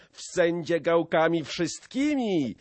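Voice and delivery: high-pitched defiant shout. A narrator's reading. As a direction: keep shouting to the crowd. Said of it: "krzyknął".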